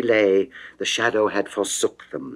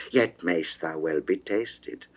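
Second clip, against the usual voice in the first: plain reading voice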